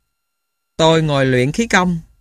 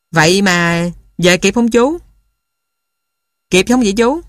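eager clamoring; 3 semitones higher than usual. A narrator's reading. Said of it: "nhao nhao hỏi".

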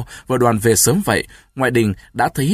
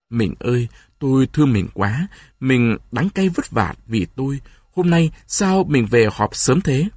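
mournful tenderness. Acted. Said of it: "Đoàn cầm tay vợ ngậm ngùi".

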